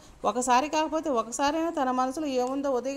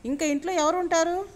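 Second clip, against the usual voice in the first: curious; 5 semitones higher than usual. A narrator's reading. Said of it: "Siddhartha ఉత్సుకతగా".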